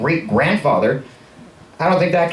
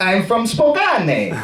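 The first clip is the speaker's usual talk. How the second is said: fake, put-on Italian accent, pitched up; 5 semitones higher than usual. Retelling telling their own story, but in a bogus Italian accent. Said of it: "in the bogus Italian accent".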